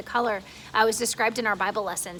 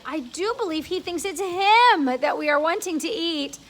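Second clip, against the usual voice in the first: ladybug amused; 5 semitones higher, 5 dB louder than usual. Acted. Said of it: "the ladybug cried".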